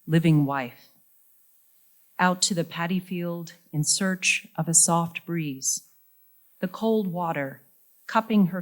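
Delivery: measured poem recital with deliberate pauses; poetry reading. Acted. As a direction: read it line by line, letting each phrase land. Reads the title poem.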